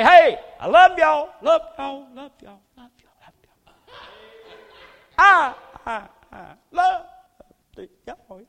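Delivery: shouted then fading away like an echo; echoing voice from the heavens. Pretend. God hollering down from the heavens, fading echo. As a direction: boom it down from heaven and let it die out. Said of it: "an echoing voice from the heavens".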